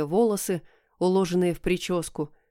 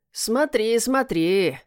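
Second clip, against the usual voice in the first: ехидно протянул; 4 semitones higher, much slower than usual. Acted. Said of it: "ехидно протянул кот".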